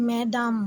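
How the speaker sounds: "ম্যাডাম" as two even syllables, mya-dam; French word demonstration. Shown as a demonstration. Teacher showing learners how French speakers say it, "ম্যাডাম" as mya-dam. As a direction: model "ম্যাডাম" clearly for learners. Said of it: "ঠিক ওভাবেই ওরা উচ্চারণগুলো করে".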